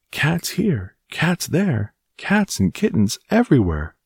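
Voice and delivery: put-on high, dismayed old-woman cry; wife exclaiming at the endless cats, high-pitched. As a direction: throw up your hands at the cats. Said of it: "she cried".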